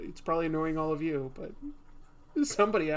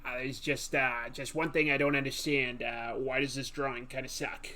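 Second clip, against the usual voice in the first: lightly voiced rumpled detective, hesitant; a hint of Columbo's muddled questioning; Columbo impression; 2 semitones lower than usual.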